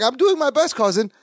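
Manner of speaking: high-pitched, mildly pleading retold quote. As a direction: imitate a worried cousin, voice lifted. Acting out Balky pleading to Larry.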